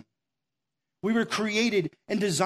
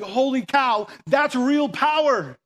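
awed Moses; 4 semitones higher than usual. Retold or imitated. Moses stunned before the burning bush, awed. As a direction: gasp it out like you've just seen real power. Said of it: "he's like".

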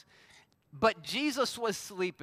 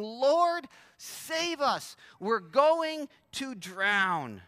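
lightly acted plea, rising then drawn out at the end; a touch of alarm, crying out for rescue; mildly panicked disciples; 3 semitones higher, 3 dB louder, much slower than usual. Disciples waking Jesus in a storm, mildly panicked. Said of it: "The disciples are freaking out".

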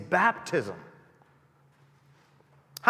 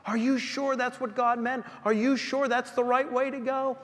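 devil's doubt; 7 semitones higher than usual. Acted. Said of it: "the devil ... plants the seed of doubt".

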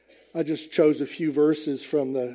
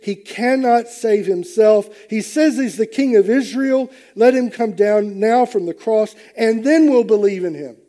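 mocking; 4 semitones higher, 4 dB louder than usual. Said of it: "mocked Jesus, saying".

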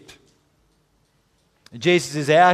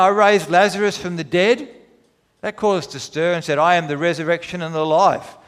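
a lightly raised, earnest Jesus voice; voicing Jesus; 2 semitones higher than usual. Preacher voicing Jesus' reply.

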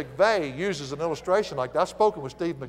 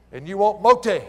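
put-on Southern accent; 3 semitones higher, 7 dB louder than usual. Preacher teasing his own people's way of talking, Southern accent. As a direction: play up the Southern "mo" for more. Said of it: "Our accent".

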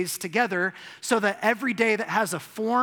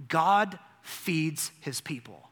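slow and weighty, letting it land; slow emphasis; slower than usual. Shown as a demonstration. Preacher to congregation, slow and weighty. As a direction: say it slowly, each word set down. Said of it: "You know what the story of Genesis says?".

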